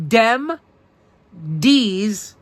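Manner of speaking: Brooklynese dem dees does with hard d; New York Brooklyn accent. Shown as a demonstration. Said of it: "the language known as Brooklynese".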